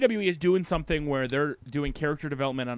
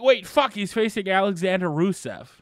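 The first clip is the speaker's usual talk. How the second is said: mock alarmed fans. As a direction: gasp it out like a shocked fan. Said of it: "people are like".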